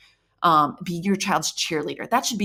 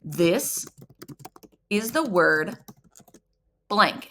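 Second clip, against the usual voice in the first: teacher prompt; much slower than usual. Shown as a demonstration. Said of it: "you're gonna say".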